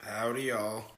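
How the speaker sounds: low cowboy drawl greeting; deep voice. Pretend. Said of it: "Taylor, your voice is so deep".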